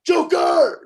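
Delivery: high, loud shout of a friend's name; full-voiced retold yell across a room. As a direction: call out his name across a restaurant. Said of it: "I fucking yelled out from across the room".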